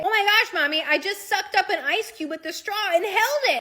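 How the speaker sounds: loud, high kid imitation; excited ten-year-old. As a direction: burst out like a kid boasting to mom. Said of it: "I hear my ten-year-old say".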